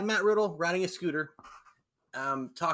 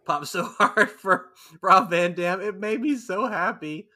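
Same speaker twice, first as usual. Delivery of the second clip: excited; 3 semitones higher, 6 dB louder than usual. Real, not acted. Delighted, laughing.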